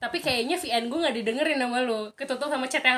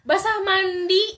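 laughing; 7 semitones higher, 5 dB louder, slower than usual. Real, not acted. Joking, laughing at own pun.

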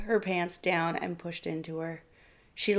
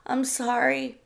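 higher, forced-out apology; frightened wife forcing her apology louder; as loud as she could; 6 semitones higher, slower than usual. A narrator's reading. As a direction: push the words out with effort. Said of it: "she said as loud as she could".

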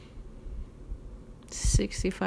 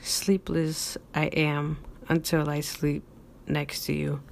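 poem reading. Acted. Reads his poem aloud.

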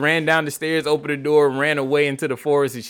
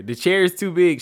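exclaimed; 5 semitones higher than usual. Acted. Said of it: "she exclaimed".

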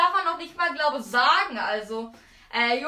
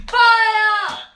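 shouting; 4 semitones higher, 6 dB louder than usual. Real, not acted. Calling fire command.

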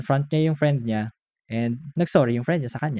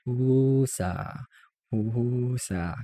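calm self-soothing; 5 dB quieter, much slower than usual. Shown as a demonstration. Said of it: "then you say husa habang nakapikit ka".

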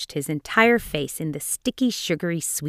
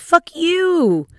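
high, loud yell; a boy yelling at his mother, high and loud; 12 semitones higher, 7 dB louder than usual. A narrator's reading. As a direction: throw it at her like a brat.

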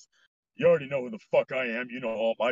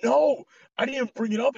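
loud denial; 10 semitones higher, 4 dB louder than usual. Real, not acted. Denying a friend's jab.

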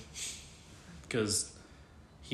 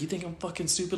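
higher mock-indignant question; imitated affront without raising volume; retold offended challenge; 7 semitones higher than usual. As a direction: mimic him taking offence, pitched up.

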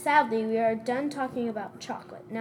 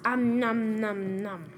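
mouth full; slower than usual. Pretend. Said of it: "what are you eating?".

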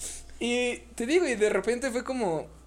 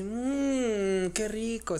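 mock commercial voice; 3 semitones higher, much slower than usual. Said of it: "y era así como haciendo la mantequillita".

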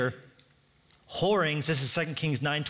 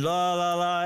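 mock frenzied babble; 3 semitones higher, 3 dB louder than usual. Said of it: "Prophets of Baal cut themselves".

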